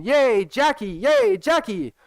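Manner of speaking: high, loud squealing cheer; mock cheering. Viewers cheering him on, high and loud. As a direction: cheer like a thrilled fan. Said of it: "You're all gonna be screaming".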